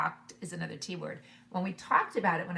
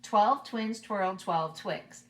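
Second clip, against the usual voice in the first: a little faster; much slower than usual. Shown as a demonstration. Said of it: "just a little bit faster".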